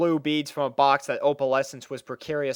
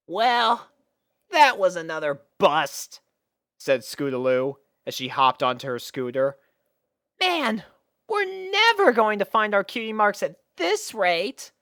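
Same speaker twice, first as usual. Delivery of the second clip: put-on high, disappointed young pony; grumbling tomboy kid; tomboy filly voice; 8 semitones higher than usual. Scootaloo voiced in story.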